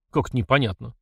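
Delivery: ordinary delivery, nothing marked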